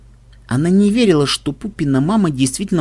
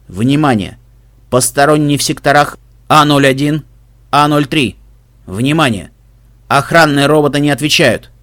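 dull robotic announcer, measured and flat; boring mechanical voice. Acted. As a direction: read it like a bored machine listing faults. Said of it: "скучный механический голос".

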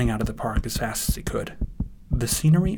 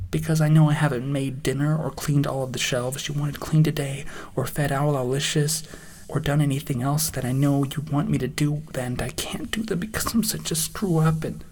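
higher, fretful confession; higher-voiced, self-blaming young dragon; upset young Spike; 4 semitones higher than usual. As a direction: spill the list of failings, distressed.

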